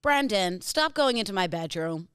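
put-on American lady accent; suspicious American woman, lightly acted. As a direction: accuse a friend as a lightly voiced American lady. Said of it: "You're an American lady".

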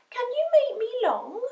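high, eager puppy voice; wide-eyed little pup; hopeful puppy. A narrator's reading. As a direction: ask hopefully, pitched right up. Puppy begs cat hopefully.

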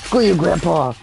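loud playful taunt at grandpa; mock yell. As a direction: shout it at the old man. Shouting at game character.

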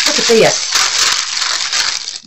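slow, hushed and unvoiced; breathy awed look. Real, not acted. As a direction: breathe it in awe over the gift. Awed over gift contents.

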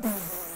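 imitated spluttering snicker; mocking burst of laughter. Boys laughing at the young preacher, mock splutter. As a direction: sputter through the lips in mockery. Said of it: "were laughing at me".

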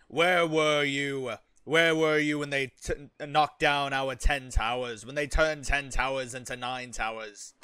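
slow, scornful raider lord; scornful warlord. Acted. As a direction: shame the cowards like a warlord. Berating soldiers in character.

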